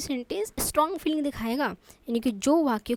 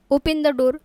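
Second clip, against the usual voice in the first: firm order; 5 dB louder than usual. Shown as a demonstration. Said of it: "किसी को order भी लग सकता है".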